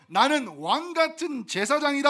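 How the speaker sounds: loud, high proclamation; shouted again. Shown as a demonstration. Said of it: "한 번 더요". (다시 한번 힘차게 외침)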